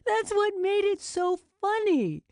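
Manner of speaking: high laughing delight; cackling laugh. A narrator's reading. Vicky laughing at own prank.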